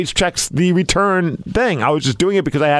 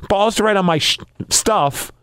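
angry shout; 5 semitones higher than usual. Real, not acted. Angry rant about anonymous note.

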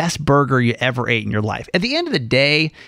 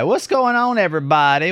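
excited greeting; 4 semitones higher than usual. Real, not acted. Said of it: "podcast opener greeting".

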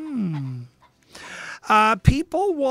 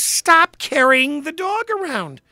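louder firm command; firm order; 6 semitones higher, 6 dB louder than usual. Retold or imitated. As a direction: tell her off, loud and firm. His order to lady.

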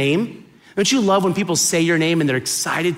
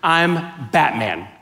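slow, understated superhero declaration; Batman impression; 3 semitones lower, much slower than usual. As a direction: draw it out slowly like a hint of Batman. Repeats the Batman punchline.

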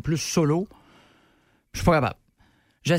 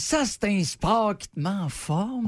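smug jogger voice; 3 semitones lower, slower than usual. Retold or imitated. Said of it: "puis qui disent".

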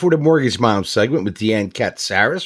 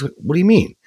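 husband; 9 semitones higher than usual. Retold or imitated. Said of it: "He goes".

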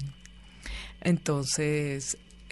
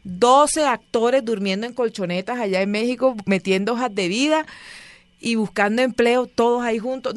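mocking scorn; 5 semitones higher than usual. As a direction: drag out the picture to ridicule it. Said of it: "Yo dije".

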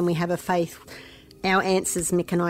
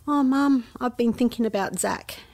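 a mother imitating her daughter's small voice; voicing young daughter; 5 semitones higher than usual. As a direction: lightly play the little girl confiding.

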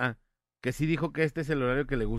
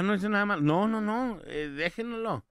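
high-pitched, insistent string of denials; urgent pleading protest; 7 semitones higher than usual. Acted. Host acting out a plea to officers taking his friend to jail, urgent protest. Acted plea to police for Manolito.

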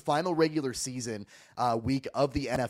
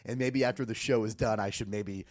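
lost voice, hoarse and squeaky. Real, not acted. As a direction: squeak through a hoarse, worn-out voice. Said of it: "I have no voice".

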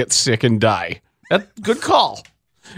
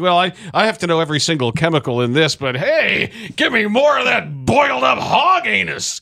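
fussy objection swinging up into eager demand; mocking impression; 5 semitones higher than usual. Host mocking people wary of ingredients, mocking and gleeful. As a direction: start prissy, then holler for it with higher pitch.

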